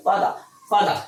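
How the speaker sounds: "ফাদার" said "faada", R dropped; British pronunciation. Shown as a demonstration. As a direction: leave "ফাদার" open on a final vowel. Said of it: "এক্ষেত্রে হবে".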